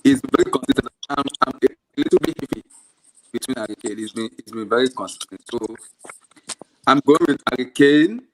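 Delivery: audio cutting in and out; choppy broken connection; glitching audio. Real, not acted. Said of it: "Your audio is cutting out a lot".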